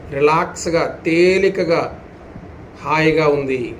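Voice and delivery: measured affirmations with long falling endings; steady, unhurried relaxation guidance; guided yoga nidra. Acted. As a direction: intone it for listeners to follow, drawing out the last word.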